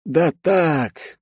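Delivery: high, drawn-out character voice; drawled evasion. A narrator's reading. Secretary dodging the boss's question, high drawl. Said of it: "протянул Бен".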